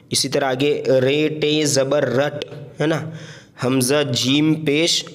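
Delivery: letters named slowly one by one; slow patient spelling drill. Shown as a demonstration. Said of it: "हिज्जे करके पढ़े".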